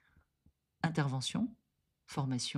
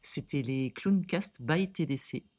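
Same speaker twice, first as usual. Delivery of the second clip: flight attendant. Acted. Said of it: "une voix d'hôtesse de l'air".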